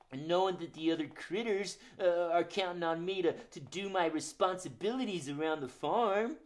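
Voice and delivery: lightly voiced sleepy rooster puppet; a hint of a shy farm rooster.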